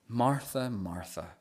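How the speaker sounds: name said softly, fading away; gentle, tender. Retold or imitated. Jesus calming an upset Martha: soft tender repeat. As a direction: soothe her with her name. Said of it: "takes all the fury and tension out".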